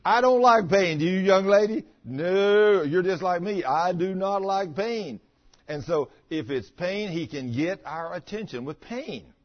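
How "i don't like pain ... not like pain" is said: loud, high declaration; emphatic preaching. Real, not acted. Preacher loudly telling the congregation he hates pain.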